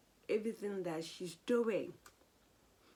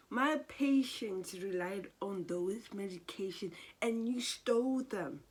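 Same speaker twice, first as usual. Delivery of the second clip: imitating angry confrontation; 3 semitones higher, 4 dB louder than usual. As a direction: throw the accusation at him, mock fuming. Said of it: "she was fuming".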